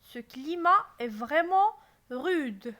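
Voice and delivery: loud, astonished stress on vraiment. Shown as a demonstration. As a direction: sound amazed at how rude the climate is. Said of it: "j'exprime mon étonnement".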